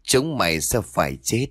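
a hint of a dark spirit's voice; lightly voiced curse from something else inside her; gloomy otherworldly voice. Possessed mistress cursing the cook's household, lightly eerie. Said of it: "Một giọng âm u được phát ra như của một kẻ khác".

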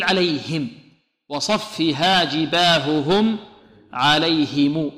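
slow, distinct H sounds in "عليهم"; clear haa. Shown as a demonstration. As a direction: sound each H fully in "جباههم" and "عليهم". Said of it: "لابد من إعمال المخرج فيها".

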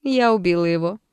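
smirk through the confession. Acted. Alter ego boasting to the doctor, smirking. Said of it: "ухмыльнулась девушка".

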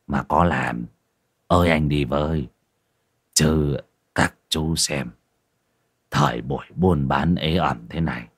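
lightly played tavern keeper complaining about hard times; a hint of a boozy village host; lightly voiced innkeeper. Narrator voices innkeeper Thịnh.

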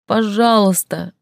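high, slow sobbing please; sobbed. Acted. Heroine sobs to Dar, slow high sob. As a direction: sob the word through a ragged breath. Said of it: "всхлипнула я сквозь рваный вздох".

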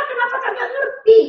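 high, exasperated parental scold; exasperated mother scolding. Acted. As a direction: snap at the child like a fed-up mother.

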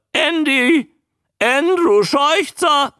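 high, loud, drawn-out squawk; high-pitched creature voice; croaking newt. A narrator's reading. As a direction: announce the name in a newt croak. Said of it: "die krächzende Stimme".

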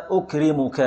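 أكرمك said with a damma, ukrimuk; nominative ending. Shown as a demonstration. Teacher giving the class أكرمك in the nominative, ukrimuk. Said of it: "بالرفع".

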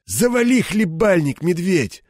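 high, cutting rebuke; curt put-down. A narrator's reading. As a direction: cut him off sharply. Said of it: "отрезал Лысый". (резко отрезать, осаживая подчинённого)

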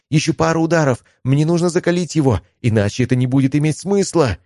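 high, urgent strained voice; strained shout. A narrator's reading. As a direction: push the words out under strain. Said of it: "напряжённый до предела".

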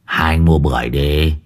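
mildly gruff pomelo seller; lightly voiced girl. Village girl selling pomelos.

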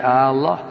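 "آه الله" with the opening hamza stretched; mock the long opening vowel; wrong drawn-out hamza. Shown as a demonstration. Sheikh imitates the wrong opening stretch. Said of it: "لا يمد الهمزة في".

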